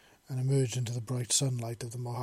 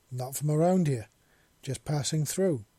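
cryptic; 3 semitones higher, 5 dB louder than usual. Acted. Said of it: "Seven said cryptically".

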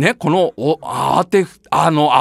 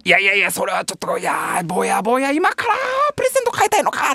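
flustered; 4 dB quieter than usual. Retold or imitated. Santa flustered by child.

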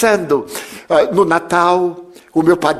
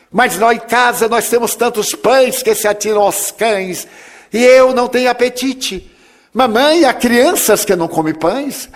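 put-on child voice; 5 semitones higher than usual. Boy pleads with his mother.

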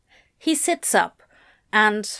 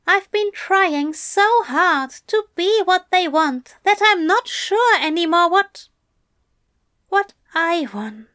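raised, higher gentle angel; higher-pitched voice for the anxious angel; Aziraphale voice; 9 semitones higher, 5 dB louder than usual. A narrator's reading. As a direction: lift the voice for the fussy angel. Aziraphale confesses.

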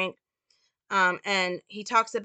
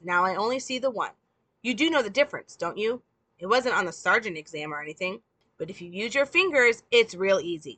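sarcastic put-down; 4 semitones higher, 4 dB louder than usual. Acted. Ray belittles the desk sergeant.

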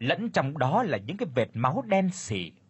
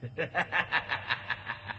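satisfied demon laugh; 7 dB quieter than usual. A narrator's reading. Demon gloats over the fainted girl, eerie laugh. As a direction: cackle with cruel satisfaction. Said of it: "nở nụ cười mãn nguyện".

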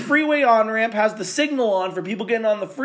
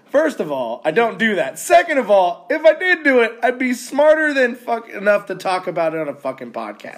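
indignant; 4 semitones higher, 4 dB louder than usual. Retold or imitated. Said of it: "I go".

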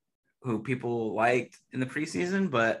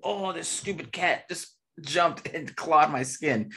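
startled by cat; 6 semitones higher, slower than usual. Real, not acted.

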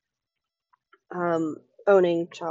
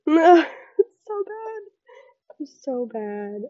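higher, giggling; laughing through words; 7 semitones higher, 4 dB louder than usual. Real, not acted. Vlogger laughs at how bad the interview went. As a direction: break up laughing as you speak.

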